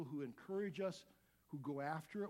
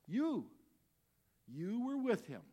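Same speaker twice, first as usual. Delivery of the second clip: accusing call; 6 semitones higher, 6 dB louder, slower than usual. Acted. Young woman accuses Peter.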